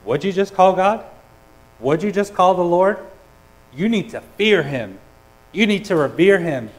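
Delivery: mock indignant crowd pushing back; scandalized crowd. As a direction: play the shocked listeners challenging him. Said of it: "People would have heard that and said".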